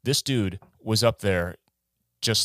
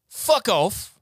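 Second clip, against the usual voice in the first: loud, high put-on Aussie accent; hammed-up Australian that veers British; attempted Australian accent; 13 semitones higher, 5 dB louder than usual. Guest jokingly insults Talia, botched Australian accent. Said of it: "That's more British than, than Australian".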